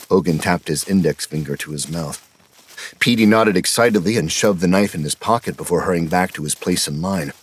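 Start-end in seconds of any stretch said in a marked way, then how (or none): none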